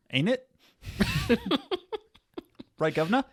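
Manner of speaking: high, hammed-up Cockney British accent; a put-on Cockney twang, played for laughs. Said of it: "excellent British accent when I try".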